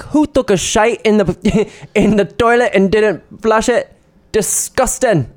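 high-pitched mock Irish accent; Irish lady. Imitating Irish lady from a video for co-host, Irish accent. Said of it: "it's, like, an Irish lady".

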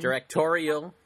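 "Directorial" said clearly with stress on TOR; "Directorial" as a clear correction, rising at the end; careful pronunciation. Shown as a demonstration. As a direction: model "Directorial" with a full "-torial" ending. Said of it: "that's how you probably say it".

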